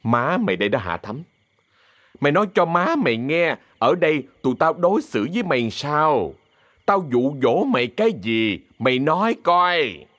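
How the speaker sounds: mildly forceful questioning, pitch lifting. Acted. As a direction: demand an answer from her. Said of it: "nói lớn".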